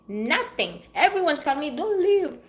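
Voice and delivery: ordinary talk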